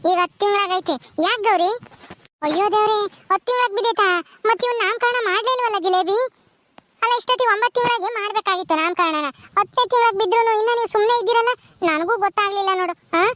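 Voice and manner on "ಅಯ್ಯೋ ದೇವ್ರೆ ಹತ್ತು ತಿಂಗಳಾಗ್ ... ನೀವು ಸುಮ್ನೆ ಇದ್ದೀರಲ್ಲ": higher-pitched, reproachful exclaiming; dismayed surprise. Acted. Woman learning the naming ceremony was never held, dismayed. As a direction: exclaim in dismay and chide a little.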